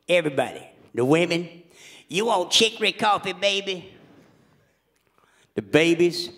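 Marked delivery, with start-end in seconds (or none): 2.1-3.9 Louisiana woman. Retold or imitated. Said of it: "they all talk just like this".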